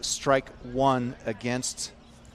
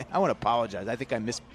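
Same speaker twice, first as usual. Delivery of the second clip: laughing apology; faster than usual. Real, not acted. Commentator apologizing to listeners for a botched name, laughing. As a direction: giggle out I wanna apologize. Laughing at his own slip.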